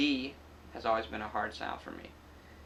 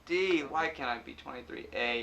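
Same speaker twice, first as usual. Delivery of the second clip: loud, exasperated mock pleading; half-joking exasperation; 3 semitones higher, 5 dB louder than usual. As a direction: throw up your hands in mock despair. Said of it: "And I'm like".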